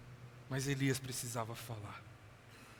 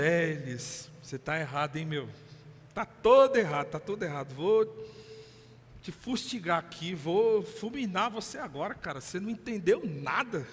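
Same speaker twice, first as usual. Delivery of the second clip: a hammed-up harsh rebuke, louder on tá todo errado; mock scolding; 4 dB louder than usual. Pastor mocks a God who rebukes Elijah, hammed-up scolding. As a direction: scold him like a nagging judge.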